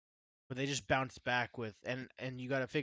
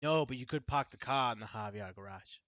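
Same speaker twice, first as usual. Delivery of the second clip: put-on a light Boston accent, dropped R's. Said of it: "that's not a bad Boston accent".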